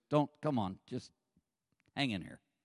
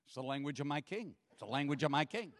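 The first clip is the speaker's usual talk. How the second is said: much softer, lower confiding reply; quiet imitating; 3 semitones lower, 8 dB quieter, faster than usual. Gary turning to the pastor, quiet mock solemn. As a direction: hush it like a secret. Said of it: "he says".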